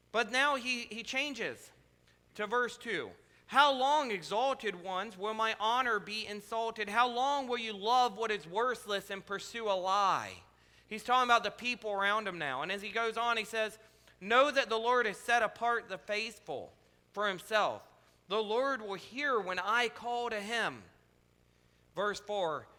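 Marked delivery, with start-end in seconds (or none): 3.5-10.4 measured, solemn reading of a psalm; lightly intoned Bible reading; scripture reading. Acted. Reads verse two. 14.2-20.8 measured, solemn reading of a psalm; lightly intoned Bible reading; scripture reading. Acted. Reads psalm verse.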